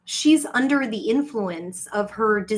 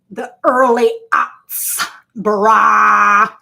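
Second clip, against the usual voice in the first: mock wail; 10 dB louder, much slower than usual. Loud crying outburst.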